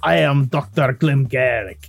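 a retold attempt at a German doctor; German accent. Host retells voicing the doctor for wife, mild German accent. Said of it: "trying to do a German accent".

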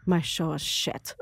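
a half-hearted Scottish impression, self-pitying; bad Scottish accent. Comedian mimics a gloomy Scottish performer, bad Scottish accent. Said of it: "I have a terrible Scottish accent".

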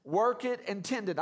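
"work" and "tend" set out firmly; stress on work, tend. Real, not acted. Preacher repeats the key verse words, stressing "work" and "tend". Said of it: "I'm emphasizing those two words".

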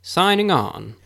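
slow, formal radio ID; announcer voice. Acted. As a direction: announce it like a station ident. Station ID opener.

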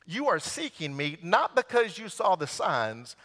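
quiet, low reading of Jesus' answer; soft scripture reading; softly read Jesus words. Acted. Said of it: "And Jesus answered them".

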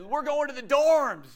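high, drawn-out rallying call; rousing announcement. Retold or imitated. Friend rallying him excitedly.

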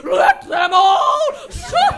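manic evil shouting. Acted. Villain's final shout.

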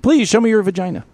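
high cooing pet voice, coaxing the cat. Real, not acted. Host coaxing his cat Mew, high cooing pet talk.

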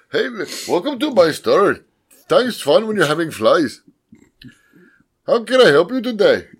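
badly faked Malaysian shopkeeper accent; mock Malaysian accent. Shopkeeper welcoming a customer, mock Malaysian accent. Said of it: "Uh, Malaysian".

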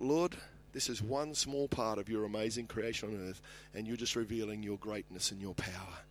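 soft, low-pitched recalled prayer; retold prayer. Preacher recalls talking to God at the waterfall, praying softly. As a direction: speak quietly to God, as remembered.

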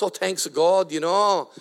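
lightly imitating his Italian dad's accent. Pastor imitating his Italian father greeting people, light Italian accent. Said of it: "My father still talk like that".

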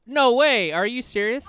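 loud, high burst of surprise; real astonished shout; shocked disbelief. Real, not acted. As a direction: blurt it out, stunned. Shocked at shared home state.

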